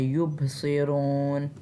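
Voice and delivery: युबसिरून with a bouncing echo on the ब; slow युबसिरून, echoing the ब; qalqala on ba. Shown as a demonstration. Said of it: "बा पे हमने कलकला करना है". (युबसिरून में ब पर कलकला)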